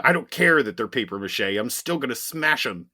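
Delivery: loud brute villain voice; Juggernaut voice. Retold or imitated. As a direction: boom it out like a brute. Juggernaut voiced, comic recap.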